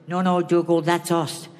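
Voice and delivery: put-on low, lightly Irish-accented priest voice; a hint of an Irish Father Ted; bad Irish accent. Quoting Ted to a comedy crowd, lightly Irish. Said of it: "excuse the bad accent".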